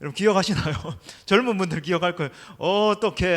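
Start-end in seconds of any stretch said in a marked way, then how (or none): 2.6-3.3 drawn-out mock dismay; imitated comedy catchphrase. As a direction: replay the sketch's gag line. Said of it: "하면서".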